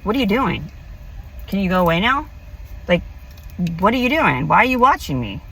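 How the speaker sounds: snapping back at a stranger; mouthy retort. Retold or imitated. Telling off the man watching her in the park, mouthy. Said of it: "I kinda get mouthy".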